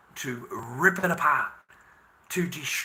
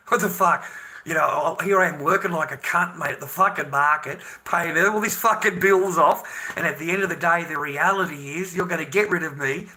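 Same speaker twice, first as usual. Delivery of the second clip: loud, furious outburst; real anger, louder and higher; angry rant; 4 semitones higher, 8 dB louder than usual. Real, not acted. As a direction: shout it at them, fed up. Furious rant about being used.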